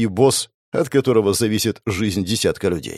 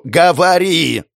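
urgent command; 7 semitones higher, 5 dB louder, slower than usual. Acted. Xiao demands terms, bomb ticking.

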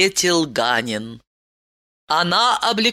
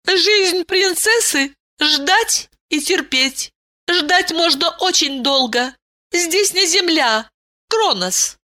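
higher princess voice, a touch hurt; offended princess; 11 semitones higher than usual. A narrator's reading. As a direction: princess defends her patience. Ailin after taking offence. (обиженная принцесса, высокий голос)

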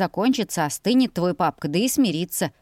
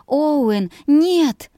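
high, loud cry of protest; alarmed cry; 8 semitones higher, 5 dB louder than usual. A narrator's reading. Girl protesting to her friend who grabbed her, alarmed cry. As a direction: stop him with a sharp cry.

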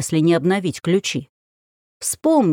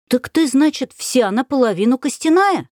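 высокий громкий детский голос; допытывайся как неугомонный мальчик; настойчивый ребёнок; 7 semitones higher than usual. Acted. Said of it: "не унимался Матвей". (неугомонный детский голос)

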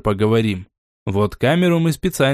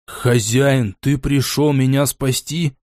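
put-on slurred drunken voice; slow, slurring drunk; slower than usual. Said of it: "пьяным голосом спросил пленный".

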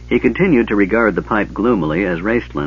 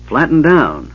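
sharp order, a bit higher; 6 semitones higher, 4 dB louder, slower than usual. Acted. Half-elf ordering warrior to flatten in pipe, firm command. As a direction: bark it at the big man. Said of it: "the half-elf ordered".

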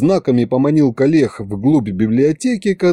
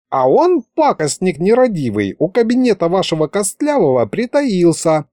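put-on high, chatty old wizard voice; an excitable old sorcerer prattling on; 6 semitones higher than usual. Wizard tells his news. (высокий голос болтливого старого колдуна)

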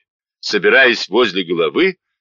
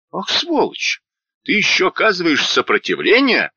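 much higher enraged cry; furious outburst; 8 semitones higher than usual. A narrator's reading. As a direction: explode at the resisting man. Soldier enraged at resistance.

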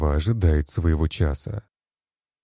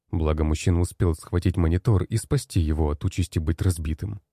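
usual speaking voice

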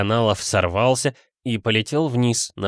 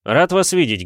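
high, loud smiling greeting; 7 semitones higher, 5 dB louder than usual. A narrator's reading. Detective greets an acquaintance at the poetry evening, smiling and raised. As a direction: greet him with a smile. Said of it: "улыбнулся Вит".

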